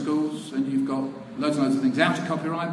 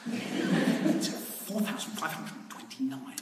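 mock precise official; 7 dB quieter, much slower than usual. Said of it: "official answering precisely".

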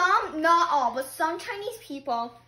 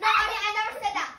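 quick protest; 5 semitones higher, faster than usual. Pretend.

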